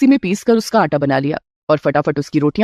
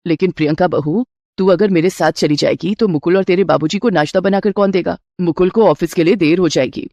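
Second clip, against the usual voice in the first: a doting mother-in-law offering a gift. Acted.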